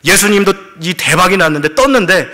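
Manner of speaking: a disciple dreaming big, urging the others on; swelling with hope. Retold or imitated. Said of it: "하고 부푼 마음으로".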